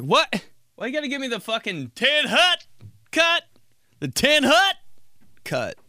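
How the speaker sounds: high, incredulous complaint to the barber; mock-outraged squeak; outraged disbelief. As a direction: squeal it like you can't believe the haircut.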